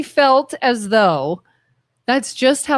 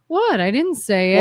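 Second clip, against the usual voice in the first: passive-aggressive; 2 semitones lower than usual. Retold or imitated. Imitating someone denying their hidden agenda, passive-aggressive. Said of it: "being passive aggressive by saying".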